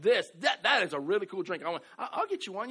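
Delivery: high, loud, laughing impression of delight; mock enthusiasm. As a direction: play the excited friend, chuckling. Friend praising the drink.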